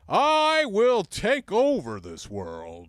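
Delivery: very slow, high, loud robot drawl. Shown as a demonstration. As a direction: stretch each word like a movie robot. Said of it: "he would go".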